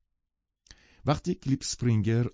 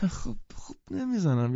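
whisper; 8 semitones higher than usual. Acted. Embarrassed pianist denying.

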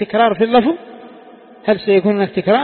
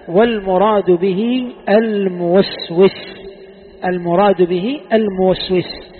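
slow emphatic repeat; slower than usual. Shown as a demonstration. Teacher explaining the commentary line to students, very slow. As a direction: drag out "الموسوس" with slow weight. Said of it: "teacher repeats for emphasis".

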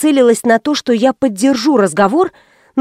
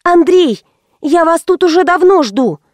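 raised voice; 6 semitones higher than usual. Acted. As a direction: call out, losing patience. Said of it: "повысила я голос".

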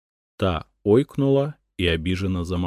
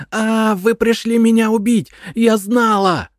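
high, loud frantic wail; shrieking madwoman; wailing scream; 8 dB louder than usual. A narrator's reading. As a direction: scream it in paranoid panic. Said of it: "завопила женщина".

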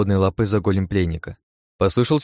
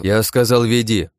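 louder sharp command; barked repeat; 2 semitones higher, 4 dB louder than usual. Acted. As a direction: bark it this time. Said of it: "Снова рявкнул на него".

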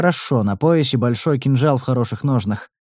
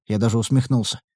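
ordinary delivery

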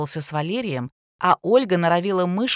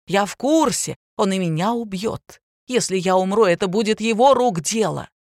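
hysterical rant; 4 dB louder than usual. Acted. Drunk woman keeps ranting, hysterical.

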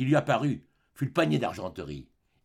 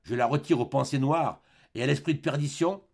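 grave et posé, sans élever la voix; solennel. Acted. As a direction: scelle le rachat de son âme. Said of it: "avec une sorte de solennité". (l'évêque bénit Jean Valjean, solennel)

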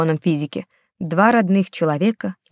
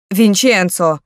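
louder reproachful cry of the name; outraged call of "Винченцо!"; indignant exclamation; 4 dB louder, much slower than usual. Acted. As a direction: scold him with his name. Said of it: "в один голос воскликнули женщины".

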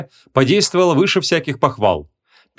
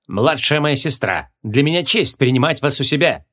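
regal king voice. A narrator's reading. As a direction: speak with calm royal dignity. King greets the princess.

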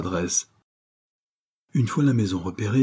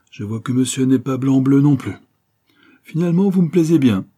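teasing delight; 6 semitones higher, 7 dB louder than usual. Acted. Louisa amused, teasing him.

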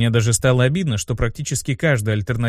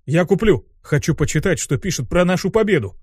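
higher, eager little imp; 5 semitones higher than usual. Acted. Imp keen to read of their victory, eager. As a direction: burst out wanting to buy it.

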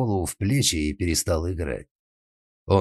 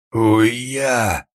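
loud sudden cry of pain; pained yelp; 5 semitones higher, 6 dB louder than usual. A narrator's reading. Carlo hit on the head, loud pained yelp. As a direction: yelp as the umbrella hits. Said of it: "вскрикнул Карло".

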